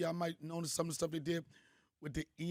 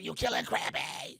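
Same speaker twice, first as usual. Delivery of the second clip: put-on slow whispered kid's lament; mock hushed whimper; 2 semitones lower, slower than usual. Kids watching the crab cooked, a slow whispered lament. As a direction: breathe it out like a heartbroken kid.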